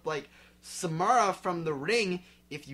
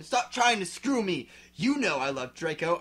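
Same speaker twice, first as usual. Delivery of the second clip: mildly raised shout; 4 dB louder than usual. Acted. Girl shouting at Vampire, mild yell. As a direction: push him off with a mild yell. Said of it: "I shouted".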